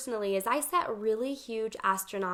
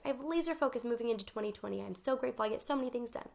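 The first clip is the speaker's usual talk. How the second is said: affirmation; 6 dB quieter, faster than usual. Shown as a demonstration. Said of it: "saying things like".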